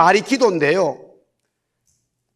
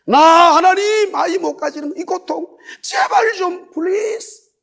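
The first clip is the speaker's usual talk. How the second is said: pleading cry; 7 semitones higher, slower than usual. Retold or imitated. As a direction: beg it out, cracking up to please. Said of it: "그 앞에서 막 우는 거예요".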